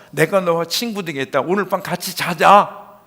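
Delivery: loud, high, emphatic invitation. Retold or imitated. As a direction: project the invitation to the back of the hall. Preacher voices the Lord befriending Zacchaeus.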